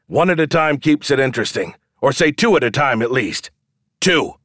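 high, projected showman's pitch; calling to the crowd. A narrator's reading. Showman asks for two men at the rope, calling out. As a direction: pitch the challenge to everyone watching.

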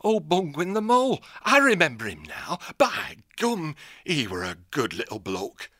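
a northern-voiced old owl hermit, gruff and folksy. Old hermit owl hailing the young hare. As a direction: greet her like a crusty old country owl.

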